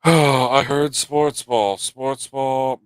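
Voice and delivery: drawn-out mocking sports-ball voice; mock listener. Streamer mimics viewers hearing sports talk, drawn-out mockery. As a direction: start loud and slow, mimicking a bored listener.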